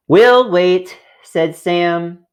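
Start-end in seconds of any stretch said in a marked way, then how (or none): 0.1-1.0 put-on louder, higher children's chorus; eager shout. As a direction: insist together, eagerly. Children determined to wait.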